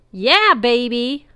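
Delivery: long high whooping cry; drawn-out ecstatic wail. A narrator's reading. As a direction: wail it out like a party animal. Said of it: "a voice wailed".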